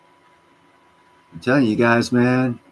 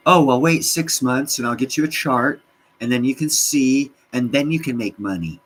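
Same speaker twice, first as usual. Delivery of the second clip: higher, louder condescending chart guy; lightly voiced smug expert; mock chart analyst; 6 semitones higher, 4 dB louder than usual. Mocking a chart analyst's reply.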